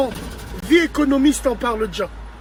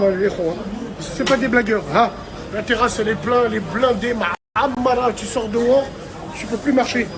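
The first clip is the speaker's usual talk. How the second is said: swollen mouth; 3 semitones lower than usual. Real, not acted. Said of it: "j'ai la bouche enflée".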